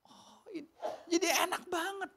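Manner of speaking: high, soft unvoiced whisper. Real, not acted. Preacher marveling to the congregation, whispered. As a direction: breathe it in awe. Moved exclamation after the verse.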